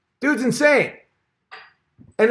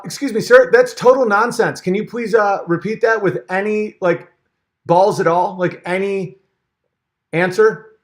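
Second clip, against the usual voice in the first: indignant interviewer; 3 semitones higher than usual. Pretend. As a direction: demand a real answer, affronted. Mock interviewer confronting Peterson.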